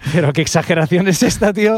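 a friend waving off the drama, unimpressed; dismissive friend. Retold or imitated. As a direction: brush it off as overreacting. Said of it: "era como".

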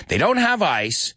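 high exasperated list, peaking on the last item; acted frustrated rant. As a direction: tick off each lack in rising disbelief. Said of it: "He's starting to get frustrated".

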